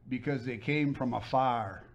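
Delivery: put-on slow Southern-accented punchline; imitated Southern accent. Redhead lady answering her own riddle, imitated Southern accent. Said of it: "with that accent".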